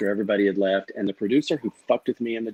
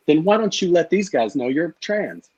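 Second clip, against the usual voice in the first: higher-pitched blurted challenge, mildly heated; retold blurted accusation; 4 semitones higher than usual. Player retelling his outburst at a rival, blurted accusation. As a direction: let the accusation fly out, retold. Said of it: "It just came flying out of my mouth".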